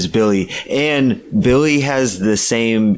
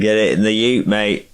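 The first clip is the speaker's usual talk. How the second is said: Australian twang that slips slightly British; attempted Australian accent. Co-host tries out the other host's Australian slang, slightly British-sounding attempt. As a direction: lightly imitate an Aussie saying "ute, mate". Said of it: "That's a bit little, little British".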